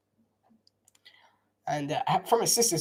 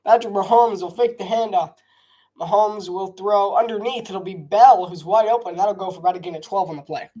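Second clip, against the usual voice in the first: live play-by-play; 2 semitones higher than usual. Acted. Streamer calling his own run play, lively broadcaster. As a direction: call the handoff like a TV announcer.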